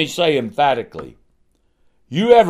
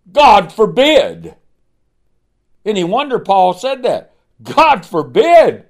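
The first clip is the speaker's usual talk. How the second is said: emphatic declaration; 4 semitones higher, 4 dB louder than usual. Acted. Preacher thunders Paul's words.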